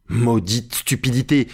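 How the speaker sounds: slow, drawn-out exasperation; exasperated curse. A narrator's reading. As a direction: curse his stupidity, stretching the words. Legrand exasperated with Jupiter. (juron exaspéré)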